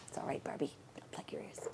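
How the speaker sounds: soft whisper to the doll; whispered aside. Real, not acted. Aside to the Barbie doll, soft whisper. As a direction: murmur a secret aside, barely voiced.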